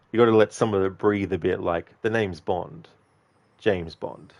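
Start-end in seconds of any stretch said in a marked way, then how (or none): 2.0-4.3 a clear pause before "James Bond", a bit quieter; how the line should be delivered; pause between. Shown as a demonstration. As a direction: let the line breathe, with a beat between the two halves. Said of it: "have a little bit of a pause".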